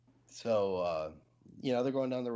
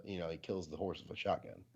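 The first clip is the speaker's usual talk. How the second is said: usual speaking voice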